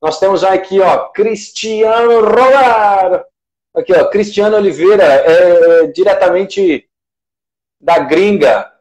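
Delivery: stretched, high announcer roll call; hyped shout-out. Acted. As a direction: announce the names like a show host. Shouting out viewers live.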